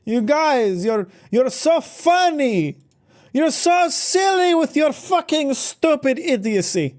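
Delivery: put-on high, slow, snooty French accent; mock French accent. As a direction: fake French accent, sneering and elitist. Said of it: "so the French accent came out".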